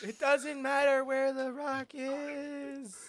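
laughing echo. Retold or imitated. GM repeats the line laughing.

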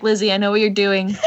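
knowing tease. Retold or imitated. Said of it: "And she was like".

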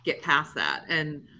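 slightly slurred words around a marker in mouth; talking with a Sharpie in the mouth; slurred speech. Real, not acted. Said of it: "Sorry, I'm slurring my words a little bit".

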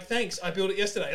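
retold dry joke with a laugh; sarcastic. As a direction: toss it off as a sarcastic reply. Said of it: "I was being sarcastic".

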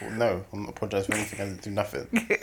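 quiet, quick grumbling refusal; muttered sulk. Retold or imitated. Husband sulking after his own dream, muttering. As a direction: mutter it under your breath, sulking. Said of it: "I'm like".

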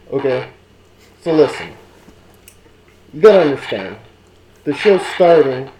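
muffled voice behind a mask; inside a rubber mask. Pretend. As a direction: talk from inside a hot mask. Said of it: "It's getting hot in this mask".

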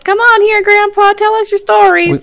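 high, loud teasing elder voice; hammed-up grandpa teasing; mock old grandpa.

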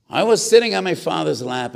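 emphatic storytelling. Real, not acted. Rebbe retells childhood memory.

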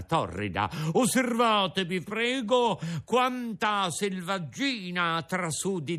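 lightly voiced showman addressing the crowd; mildly pompous circus announcer speech; pompous circus director. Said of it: "aggiunse queste parole".

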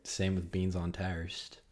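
put-on British accent, slow and drawn. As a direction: say it like a Brit. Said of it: "you're doing a British accent".

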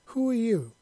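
high, loud startled question; mildly flustered and taken aback; startled stammer. A narrator's reading. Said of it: "Monty stammered".

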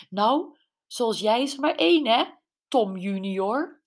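mildly imitated plummy haughty voice; posh snooty mother. Betty imitates the snooty blonde mother, lightly mocked posh voice. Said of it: "met zo'n hete aardappel in haar keel".

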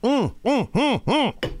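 gulping water mid-sentence; swallowing and sputtering into the mic; choking on a drink. Real, not acted. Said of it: "I'm choking as I'm talking".

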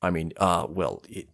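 lightly put-on Russian-dwarf voice; hesitant dwarf with a hint of an accent. Dwarf haggles with tutor over payment, lightly voiced.

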